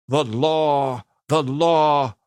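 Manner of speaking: loud, high outraged cry repeated. A narrator's reading. Governor exploding at Deacon with a loud outraged cry. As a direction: sputter it out in fury.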